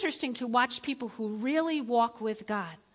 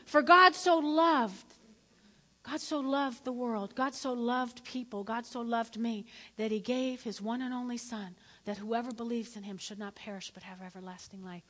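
scripture recitation. Acted. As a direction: recite the verse with reverence. Recites John 3:16.

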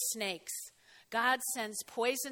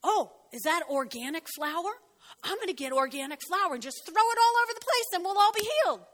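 flaky Christian; 5 semitones higher, 4 dB louder than usual. Pretend. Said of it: "Or flaky, flaky, flaky".

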